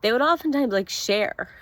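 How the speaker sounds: real tears catching in the voice; fighting back crying while she speaks; close to tears. Real, not acted. Missing her old housemates, voice choking up with tears. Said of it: "I'm gonna cry".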